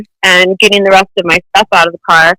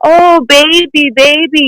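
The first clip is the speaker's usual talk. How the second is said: imitating a pushy man in a raised, drawn-out Russian accent; mock Russian accent; 6 semitones higher, slower than usual. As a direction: coax her like a pushy Russian guy. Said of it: "in that Russian accent".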